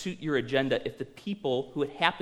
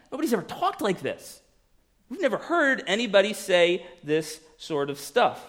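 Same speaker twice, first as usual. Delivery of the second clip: pleading guards; 4 semitones higher than usual. Acted. Acting out temple guards pleading.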